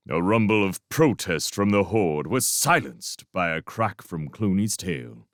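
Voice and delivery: plain reading voice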